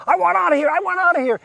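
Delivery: high-pitched mock panic; upset, panicked. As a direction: plead to escape, voice jumping up. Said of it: "Schmidt is getting really upset".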